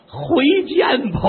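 panicked farewell. Acted. 吓跑前告别.

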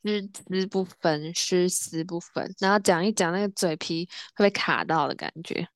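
talking through new braces; slightly slurred braces speech. Real, not acted. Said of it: "请问棒答应为什么今天讲话不太清楚呢". (戴着牙套说话)

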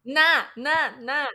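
Na, na, na drawn out slowly; slow drilled syllables. Shown as a demonstration. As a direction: drill the Na syllable, teacher style. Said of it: "teaching syllable". (慢慢练习音节)

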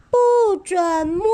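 slow, high, loud shout; angry shout. Acted. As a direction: bark it out slowly, fiercely. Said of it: "用力大吼".

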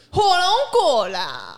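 slow, loud fruit curse; mock angry. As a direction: spit it out like a swear. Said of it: "比如说叫".

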